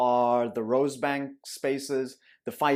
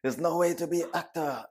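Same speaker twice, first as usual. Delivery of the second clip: higher mock Asian accent; 5 semitones higher than usual. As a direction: repeat the parent line in an Asian accent. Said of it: "Asian accent".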